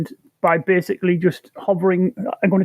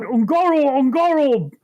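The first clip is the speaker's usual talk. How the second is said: mock shout; 6 semitones higher than usual.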